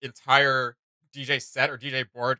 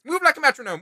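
a hammed-up imitation, much higher and louder, ending on a rise; mock robotic DJ voice; 13 semitones higher, 5 dB louder than usual. Mimicking the champion's line for viewers, mock robotic voice. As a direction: parrot the game voice line in a higher sing-song. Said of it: "That's our D J Sona experience".

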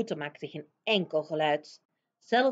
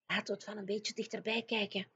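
put-on much softer, hushed girl voice; whispering; 2 semitones higher, 8 dB quieter, faster than usual. Sophie urging the giant closer, in a hush. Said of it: "fluisterde Sophie".

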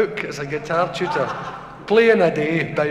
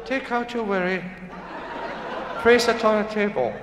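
softer, lightly imitated Japanese doctor's accent; 2 semitones higher, 4 dB quieter than usual. Japanese doctor repeats instruction to patient, mock Japanese accent. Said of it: "It's a wee Japanese doctor".

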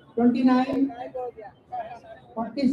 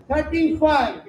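calling out the numbers; sing-song number calls for the hall; bingo caller; slower than usual. Acted. Housie numbers called to players.

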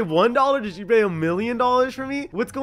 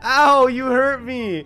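laughing mock pain; 4 semitones higher, 5 dB louder, slower than usual. Fake injury in game, laughing.

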